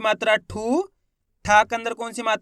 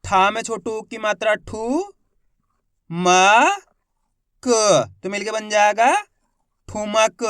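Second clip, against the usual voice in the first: syllable by syllable; slower than usual. Shown as a demonstration. Teacher sounding out a Hindi word for the class, letter by letter. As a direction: sound out each letter, then blend. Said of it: "उसी तरीके से आपको भी पढ़ना है".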